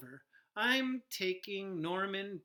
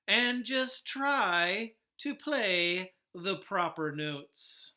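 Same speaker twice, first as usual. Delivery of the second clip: snapping; 7 dB louder, slower than usual. Acted. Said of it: "snaps Maestro".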